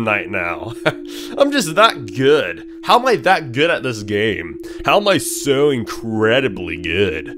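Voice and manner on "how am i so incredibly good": voice crack. Real, not acted. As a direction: voice cracking mid-sentence. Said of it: "as I voice crack".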